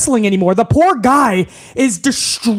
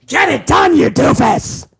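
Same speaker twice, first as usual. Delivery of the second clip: Vince McMahon impression; 3 semitones higher than usual. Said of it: "Yes, Vince".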